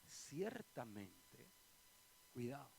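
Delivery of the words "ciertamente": "ciertamente" stretched very slowly with a rising end; drawn-out ciertamente. Shown as a demonstration. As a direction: let "ciertamente" hang, slow and rising. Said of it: "Cuando en la Biblia ustedes oigan a Jesús decir".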